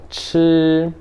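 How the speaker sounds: chi high and level; first-tone chi. Shown as a demonstration. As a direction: hold chi on one high, steady pitch. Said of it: "Primeiro tom".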